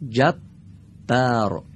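جبار drawn out very slowly, doubled ب held; slow gemination demo. Shown as a demonstration. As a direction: stretch جبار, lean on the double b. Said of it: "دقت کنید".

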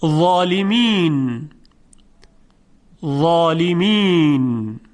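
ظالمین with a thick, full ظا; heavy zaa. Shown as a demonstration. Teacher showing the heavy ظا slowly. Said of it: "مثال برای حرف".

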